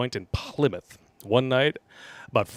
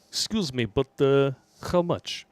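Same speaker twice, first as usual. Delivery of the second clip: put-on Russian accent. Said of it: "in Ivan Drago's voice".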